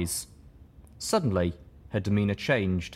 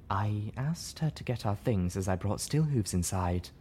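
morose; 4 dB quieter than usual. Acted. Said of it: "Velvet said morosely".

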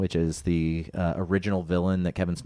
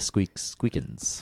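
squeaky rubber duck; 3 dB quieter, much slower than usual. Retold or imitated. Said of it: "Is that an exact quote?".

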